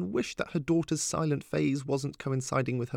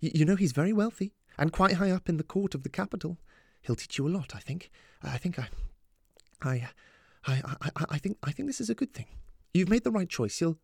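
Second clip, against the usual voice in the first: higher, faltering and stammering; voice cracking; 6 semitones higher, faster than usual. A narrator's reading. Mum praising her daughter's choice, voice cracking. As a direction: falter towards tears while trying to approve. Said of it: "her voice cracked a little".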